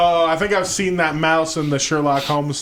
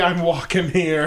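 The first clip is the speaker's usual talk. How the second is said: put-on New York accent; slower than usual. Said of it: "That's like the".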